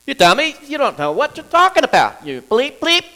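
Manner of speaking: loud, high name-calling; openly aggressive insult. Shown as a demonstration. Pastor playing an angry man insulting someone, loud and high. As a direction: bark the insult down at them. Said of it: "So that's openly aggressive".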